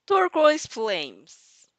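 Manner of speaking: turquoise drawn out slowly, each syllable placed with care; slow deliberate reading. Real, not acted. Reader slowly settling on how to say turquoise.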